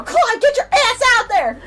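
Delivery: high, loud laughing shout; hammed-up yell at a friend; mock yell. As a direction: bellow it into the bathroom. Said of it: "walk into the men's bathroom and go".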